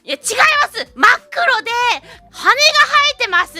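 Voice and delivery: high, loud frustrated insistence; exasperated shout. Retold or imitated. Nobi insists to the shopkeeper, high and loud. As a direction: shout the correction, fed up. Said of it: "っつって".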